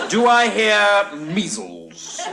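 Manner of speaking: very slow, stretched-out call for bids; auctioneer's call. Acted. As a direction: draw it out like an auctioneer opening bidding.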